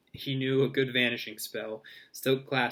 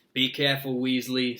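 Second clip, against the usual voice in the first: understated sneering warning; a touch of menace, firmly put; 4 dB louder than usual. A narrator's reading. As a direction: warn him off with mild scorn. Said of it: "sneered Malfoy".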